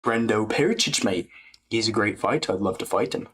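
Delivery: put-on British fighter voice; Aspinall. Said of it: "like, the Aspinall voice".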